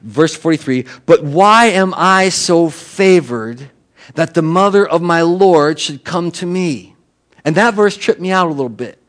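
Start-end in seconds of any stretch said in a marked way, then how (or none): 1.0-7.0 slow, drawn-out, lightly acted disbelief; mildly exasperated. Elizabeth to visiting Mary at her honour, mildly exasperated. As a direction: stretch the question out in mild exasperation. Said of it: "this kind of exasperated thing".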